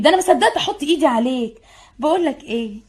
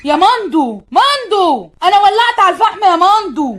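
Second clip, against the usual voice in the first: louder call, rising toward the end; 5 semitones higher, 4 dB louder than usual. Acted. The girl calling Mando from the other room.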